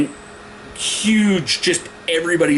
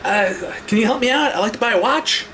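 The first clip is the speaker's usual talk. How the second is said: calling out; 5 semitones higher than usual. Retold or imitated. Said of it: "as I'm yelling out".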